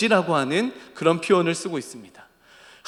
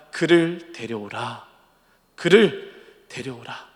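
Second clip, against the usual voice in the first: low, slow, solemn order; Jesus commanding; 5 semitones lower, 3 dB quieter, slower than usual. Acted. Preacher as Jesus ordering the disciples, slow low command. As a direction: give a measured, lordly command. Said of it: "예수님이 제자들에게 명령합니다".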